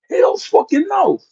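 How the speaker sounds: high, slow, drawn-out no; blunt refusal. Retold or imitated. God flatly refusing a prayer, slow and emphatic. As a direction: stretch out the no emphatically.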